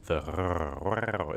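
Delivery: "rrr" growled in the throat like Perry the Platypus; French throaty r. Shown as a demonstration. Streamer showing chat the French r sound. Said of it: "it's kinda like Perry the Platypus".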